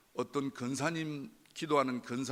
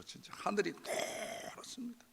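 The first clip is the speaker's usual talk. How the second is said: hushed whisper; 7 semitones higher, 5 dB quieter, slower than usual. Real, not acted. Despair at his situation.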